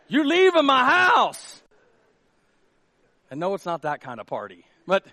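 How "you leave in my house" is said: mock stern order. Pastor shooing lingering guests.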